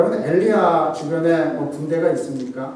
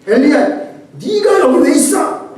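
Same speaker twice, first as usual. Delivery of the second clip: high, loud angry shout; angry rebuke; 11 semitones higher, 7 dB louder than usual. Shown as a demonstration. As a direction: scold him sharply, higher and louder. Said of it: "먼저 화를 낼 때". (높고 크게 화내며 꾸짖듯이)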